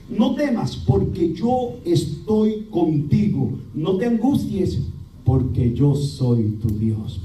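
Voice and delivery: slow, solemn verse reading; solemn, slow Bible recitation; scripture reading. Acted. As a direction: proclaim God's words slowly.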